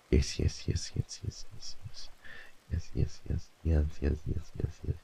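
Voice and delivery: soft, fading puppy coos, down to a whisper. Real, not acted. Streamer cooing softly at a dog photo, baby talk.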